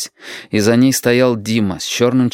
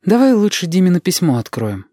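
put-on higher young woman's voice, coaxing; Lidka asking; 9 semitones higher than usual. Lidka asks Shut to open the letter, coaxing in a higher voice. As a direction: ask him sweetly. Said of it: "попросила она".

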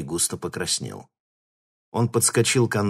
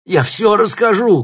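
much higher, louder panicked cry; desperate shout; 13 semitones higher, 11 dB louder than usual. A narrator's reading. Captive with a claw at his throat, screaming. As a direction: scream out in terror. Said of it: "крикнул он".

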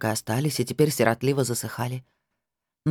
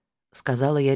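ordinary delivery, nothing marked

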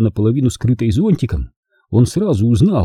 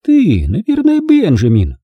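high singsong opening that drops away; sugary, prying politeness; sticky-sweet; 9 semitones higher, 4 dB louder than usual. A narrator's reading. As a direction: coo it like an over-sweet lady. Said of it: "липким голосом пропела дама".

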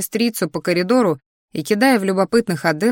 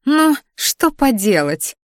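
high, slow careless snort; 7 semitones higher, slower than usual. A narrator's reading. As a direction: shrug it off with disdain. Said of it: "фыркнула Криштия".

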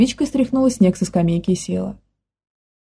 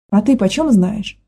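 slow, drained, worn-out asking; exhausted question; slower than usual. Acted. The nanny, caught, asks Manya wearily. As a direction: ask it as if all strength is gone. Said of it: "обессиленно спросила девушка".

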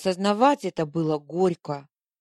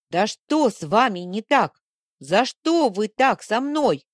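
louder and higher, a cry of frustration; exasperated outburst; 4 semitones higher, 6 dB louder than usual. A narrator's reading. Girl losing patience with the pompom creature, loud exasperated cry. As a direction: she snaps, fed up and hurt. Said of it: "Не выдержала я".

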